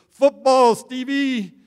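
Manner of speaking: loud, high-pitched holler; wife's excited yell. Retold or imitated. Preacher imitating his wife when football comes on, yelling loudly. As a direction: yell it out like a fan at kickoff. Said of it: "she yells out".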